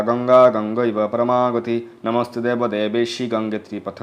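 slow, measured Sanskrit prayer recitation; mantra recitation. Acted. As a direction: intone the mantra steadily, like a priest at the river. Recites Ganga pranam mantra.

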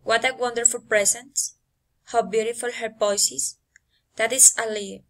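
exclamations coming down on "voice is" and "lie"; falling intonation. Shown as a demonstration. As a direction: let "voice is" and "lie" drop at the end. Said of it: "falling intonation".

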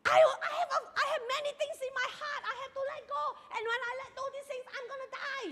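put-on old lady telling the speaker she will die soon. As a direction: let an old woman's confession trail away. Retelling the old lady's words.

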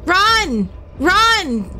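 urgent repeated cries, rising and falling; urgent calling. Real, not acted. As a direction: urge them to flee. Urging character to flee in game.

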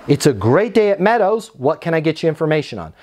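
upbeat greeting with a quick, businesslike question; smile through the phone. Shown as a demonstration. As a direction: greet a caller positively, then get down to business. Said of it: "like a smile through the phone".

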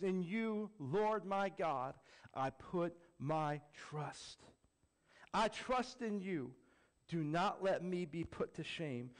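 slow, prayerful scripture reading; slow psalm reading. Acted. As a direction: read each phrase like a prayer. Reads Psalm slowly.

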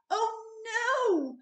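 high, loud weary groan of a fed-up father; a tired dad at the end of his rope; exasperated Mister Bear. A narrator's reading. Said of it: "said Mister Bear".

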